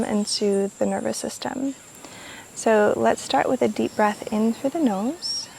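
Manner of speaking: calm, unhurried meditation voice with long pauses; guided meditation. Real, not acted. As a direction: lead listeners gently through each breath, leaving room to breathe. Leads a guided breathing meditation.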